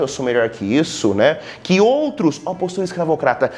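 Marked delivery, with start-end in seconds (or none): 1.6-3.5 higher, haughty put-down; mock disdain. Teacher voicing the elitist poet's scorn, higher and haughty. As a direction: sneer like an aristocrat above manual labour.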